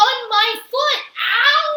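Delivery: high, loud yelp of pain; Amelia Bedelia. A narrator's reading. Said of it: "said Amelia Bedelia".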